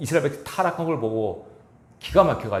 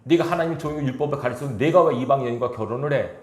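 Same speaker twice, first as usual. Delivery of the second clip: retold scolding; 2 semitones higher than usual. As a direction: play Aaron and Miriam mildly rebuking their brother. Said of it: "라고 야단을 쳐요". (가볍게 나무라는 말투)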